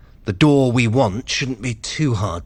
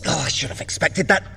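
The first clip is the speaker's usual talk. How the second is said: ordinary talk, nothing marked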